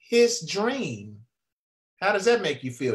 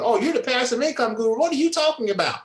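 higher, fast, doubting listener; sceptical mock quote; 4 semitones higher, faster than usual. Speaker imitating doubtful viewers with fast, higher mock disbelief. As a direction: toss it off like a sceptic. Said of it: "you guys are probably thinking".

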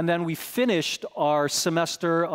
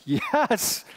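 much higher strained yes; high, tight retold yes; pained yes; 9 semitones higher than usual. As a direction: answer through the pain. Still feels the pain.

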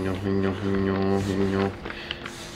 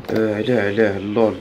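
panicking gamer; 6 dB louder than usual. Real, not acted. Startled by game enemy.

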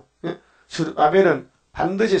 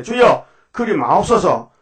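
pleading protest; 3 semitones higher than usual. Retold or imitated. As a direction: beg him not to go. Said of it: "예수를 붙들고 강하여 가로되". (스승을 붙드는 베드로의 간청)

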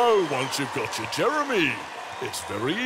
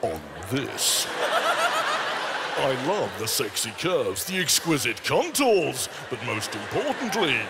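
Jeremy Clarkson impression; 4 semitones lower than usual. Shown as a demonstration. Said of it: "to do Jeremy".

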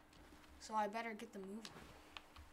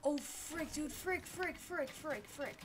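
higher rapid frantic cursing; panicking gamer; 4 semitones higher, slower than usual. Real, not acted. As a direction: panic under fire. Enemy attacking.

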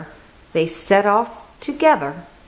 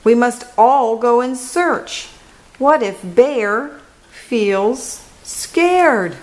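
bird voice; 4 semitones higher than usual. Acted. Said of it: "Wren tweets".

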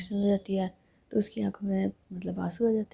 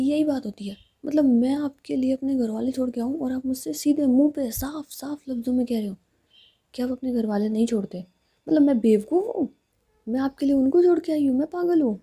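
higher and louder, rising indignation; angry accusation; 3 semitones higher, 4 dB louder than usual. Acted. Preet scolding Saanu for not giving up her family, angry and loud. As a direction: let the hurt boil over into anger.

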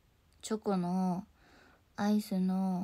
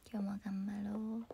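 whisper; 7 dB quieter than usual. Real, not acted. Sign-off encouragement.

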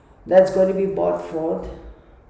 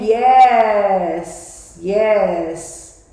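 louder, emphatic voicing of Gabby's message; slower, pressing spirit-message delivery; channelling Gabby; 6 dB louder, slower than usual. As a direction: relay her insistent yes with force. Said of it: "She's saying".

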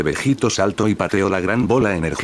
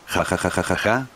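softer, bouncy mock ha-ha; lively laugh; 4 dB quieter than usual. Majin Buu laughs as the pink mass traps Vegito, softer gleeful laugh. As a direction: laugh in triumph, lightly played. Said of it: "rió emocionado".

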